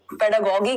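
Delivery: पेडागोगी, ending in "-gee" as in geese; hard g pronunciation. Shown as a demonstration. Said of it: "कह देते हैं कई लोग". (पेडागोगी के अंत में कठोर "ग" का उच्चारण)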